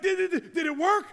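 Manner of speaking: a brain desperate to know it worked; anxious excitement. Retold or imitated. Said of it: "your brain is like".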